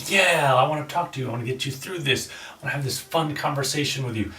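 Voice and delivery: bright friendly energy; playful voice. Shown as a demonstration. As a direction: sound fun to be around. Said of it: "playful voice, lighthearted, kinda energetic".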